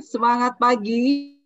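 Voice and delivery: loud rousing call; energetic greeting. Real, not acted. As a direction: pump up the room. Trainer rallies the zoom class.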